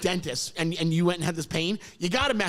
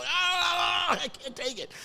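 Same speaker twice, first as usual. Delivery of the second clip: mock scream; 8 semitones higher, slower than usual. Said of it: "I'm screaming".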